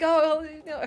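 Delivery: jaw locked. Retold or imitated. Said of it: "'cause I couldn't talk at that point".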